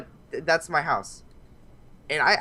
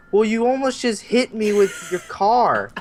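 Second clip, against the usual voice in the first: much higher, slow, outraged; rattled yelping at the guard; retold freak-out; 9 semitones higher, 4 dB louder, slower than usual. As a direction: squeal it out, still shaken. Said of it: "I completely freaked out".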